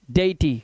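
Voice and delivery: "deity" as DAY-i-tee, e and i apart; teacher's model of "deity" in three syllables; vowels sounded separately. Shown as a demonstration. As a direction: give each vowel of "deity" its own sound. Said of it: "स्वतंत्र रूप से".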